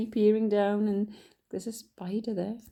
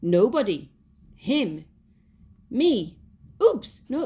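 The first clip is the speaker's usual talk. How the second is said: put-on flustered children; 4 semitones higher, 6 dB louder, slower than usual. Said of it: "all spoke at once".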